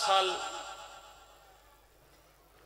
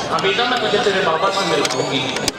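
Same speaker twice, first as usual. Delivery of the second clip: put-on loud, anguished promise to her child; anguished mother; 9 dB louder than usual. Mother consoling her daughter, loud and anguished. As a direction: soothe the child through grief, at full voice. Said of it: "तड़प के कहती थी".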